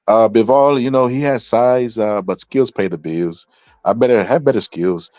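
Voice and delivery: lightly imitated boxer talk, drawn out in the middle; a hint of another fighter's way of talking; Mayweather impression. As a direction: slowly mimic a boxer's boast. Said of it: "he was sounding like Mayweather".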